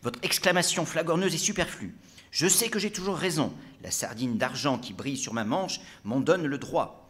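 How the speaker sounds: pompous self-praise; haughty brigadier. Acted. Brigadier boasting of his rank to the gendarme, haughty.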